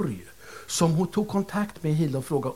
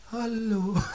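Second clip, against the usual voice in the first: voice from beyond; 6 semitones higher, 3 dB quieter than usual. Retold or imitated. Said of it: "en röst som sa".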